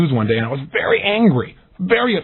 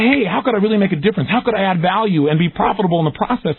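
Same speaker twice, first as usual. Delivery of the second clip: higher, eager and hopeful question; bright expectant asking, pitched up; 5 semitones higher than usual. Shown as a demonstration. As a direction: ask it like you fully expect an answer. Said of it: "you say it with a state of expectancy".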